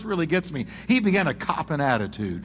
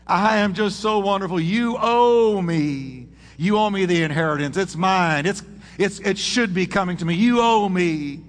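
spoiled brat; 3 semitones higher than usual. Retold or imitated. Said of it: "this was the voice of a spoiled brat".

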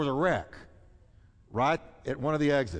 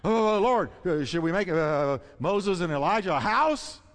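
louder, higher flustered blurt; Peter blurting; 4 semitones higher, 4 dB louder than usual. Acted. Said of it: "always said".

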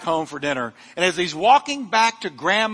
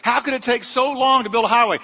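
high-pitched, exasperated mock complaint; exasperated rant; 6 semitones higher than usual. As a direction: vent at the workers in mock frustration. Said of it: "I have talks with those construction workers".

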